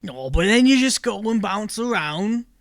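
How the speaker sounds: bored toad grumbling about his job; toad folk accent. Acted.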